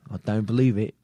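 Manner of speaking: put-on botched Australian accent sounding British; weird British accent. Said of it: "did a weird British accent".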